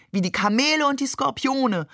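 high-pitched call from the side. A narrator's reading. A cousin adds camels and scorpions, calling out. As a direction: chime in high, without much extra force. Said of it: "rief nun einer meiner Cousins".

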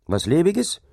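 high, rising disbelief; incredulous. A narrator's reading. Dike reeve repeats the laborer's word in disbelief, high and rising. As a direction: repeat the word as if you can't believe it.

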